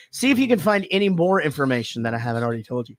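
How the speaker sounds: talking through a yawn; stifling a yawn mid-sentence. Real, not acted. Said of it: "sorry, I'm yawning so much".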